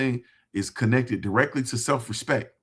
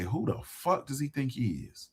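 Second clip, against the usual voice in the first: muttered scorn; 8 dB quieter than usual. Retold or imitated. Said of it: "they say".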